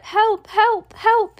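very high, urgent cries; yelling for help. A narrator's reading. Drowning boy calls from the chocolate river, high yell. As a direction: cry for help, pitch shooting up. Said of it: "he yelled".

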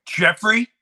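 high, loud and drawn out; announcing chips. Retold or imitated. Kid warning Jeffrey the ball costs money, high and slow. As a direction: spell out the price slowly to Jeffrey. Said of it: "I'm like".

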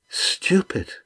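breathy scornful hiss of a word; contemptuous sneer. Acted. Captain sneering at his bound captive, hissed contempt. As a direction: spit it out with contempt.

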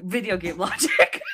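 laughing mock British; British accent. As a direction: repeat it in a British accent, amused.

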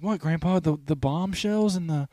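concerned grandchild. Acted. Grandchild asking Grandpa about the war, mild concern. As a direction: ask as a puzzled grandkid, a touch high. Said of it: "He's like".

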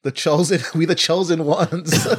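chuckling through the catchphrase; slow, laughing catchphrase. Pretend.

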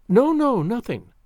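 hurried protest, jumping up in pitch; quick interruption. A narrator's reading. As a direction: break in on the speaker, pitched high. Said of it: "she interrupted quickly".

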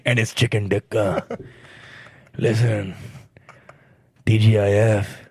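put-on Indian accent. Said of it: "the angry Indian guy".

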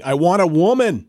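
mock yell. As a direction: call out from the tree, half-hearted. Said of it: "he was just yelling".

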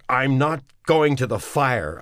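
high and loud, bursting out; loud outburst refusing the fire; blurted out. Acted. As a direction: blurt it before you can stop. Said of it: "Neville blurted".

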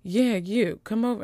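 a hint of creepy come-hither; mock creepy conductor. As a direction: imitate a conductor calling someone over creepily. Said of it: "is a little bit creepy".

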